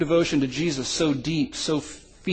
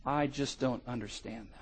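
soft, low baffled mutter; 3 semitones lower, 11 dB quieter than usual. Acted. Guard grumbling about the Christians, soft mutter. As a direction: grumble under your breath. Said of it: "he muttered".

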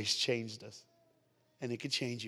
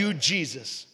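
raised, projected prayer phrase; led prayer; 4 semitones higher, 5 dB louder, slower than usual. Real, not acted. Preacher leading the congregation in a repeat-after-me prayer, projected. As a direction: call it out for the room to repeat.

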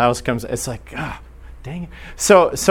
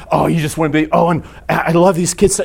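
effusive mom; 4 semitones higher, 4 dB louder, faster than usual. Retold or imitated. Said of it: "they're just effusive".

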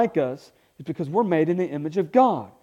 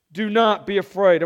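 louder, emphatic proclamation of NOT; proclaimed; 3 semitones higher, 5 dB louder than usual. Shown as a demonstration. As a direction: hit "not" hard as a command. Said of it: "Everyone say".

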